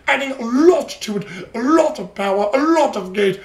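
put-on southern Cockney accent. Reviewer summing up the episode, southern Cockney accent. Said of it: "Sorry for the southern cockney accent".

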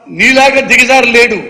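loud, slow, every word pressed; slow scornful retort. Acted. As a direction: spell out the insult slowly and loud. (నెమ్మదిగా, గట్టిగా ఎగతాళి)

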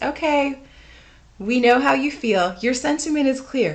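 soothing someone who's riled up, patronising; placating. Shown as a demonstration. Teacher placating an upset, ranting student, patronising and soothing. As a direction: pat them on the head with your words. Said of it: "you're placating someone".

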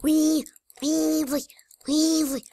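gleeful wee. Real, not acted. Gleeful cheering while playing.

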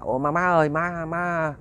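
a slight tremble, timid and hesitant; daughter-in-law nervously asking her mother-in-law, a hint of trembling. Young mother asks mother-in-law at night, a touch shaky. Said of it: "Mà nói cái giọng cà rung".

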